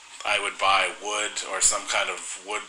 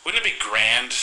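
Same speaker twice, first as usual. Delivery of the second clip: put-on a touch of a British accent, higher; 4 semitones higher than usual. Telling himself his shelving idea, lightly British accent. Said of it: "I'm pretty sure I had a British accent".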